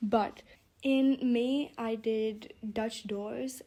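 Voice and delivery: slow, careful words through braces; sore mouth from braces. Real, not acted. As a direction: speak slowly around tightened braces. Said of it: "my mouth is really hurting".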